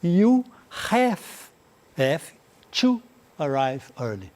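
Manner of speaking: word by word, with pauses, repeating "have"; slow model sentence. Shown as a demonstration. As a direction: break it up slowly for the students. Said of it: "o som de F".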